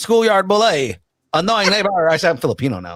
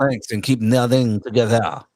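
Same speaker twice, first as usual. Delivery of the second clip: put-on deep French accent; 5 semitones lower than usual. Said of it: "deepen your voice when you make fun of French people".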